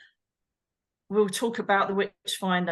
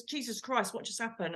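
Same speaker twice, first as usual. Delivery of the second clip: much softer, stunned murmur; shaken hush; 9 dB quieter than usual. Retold or imitated. The terrified friend asking what happened, a hushed shaken voice. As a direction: barely get the words out, shaken.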